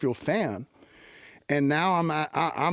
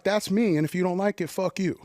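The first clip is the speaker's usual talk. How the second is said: defiant; 6 semitones higher than usual. Retold or imitated. Kid from the Valley telling hip hop critics off, defiantly. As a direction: throw it at them, daring anyone to object. Retells his defiant Irish stance.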